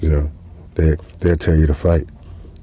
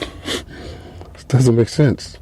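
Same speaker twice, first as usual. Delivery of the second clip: muttered aside; 5 semitones higher, 4 dB quieter, much slower than usual. Real, not acted.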